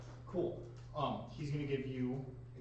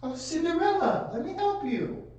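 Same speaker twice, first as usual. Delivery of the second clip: high, loud stage character voice; Tomcat voice; 8 dB louder than usual. Acted. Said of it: "I'll break out the Tomcat voice".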